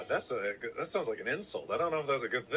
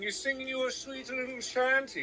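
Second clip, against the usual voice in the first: high, giggly, fanciful spin; much higher, laughing whimsy; laughing riff; 9 semitones higher than usual. Real, not acted. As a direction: spin a silly tale through laughter.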